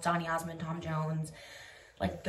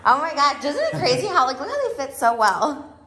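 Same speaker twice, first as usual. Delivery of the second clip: excited; 7 semitones higher, 13 dB louder than usual. Real, not acted. Excited showing off the outfit.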